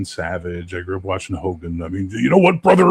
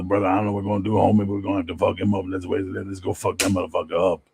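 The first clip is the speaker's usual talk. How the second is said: Sugar impression; faster than usual. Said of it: "Sugar talked like this".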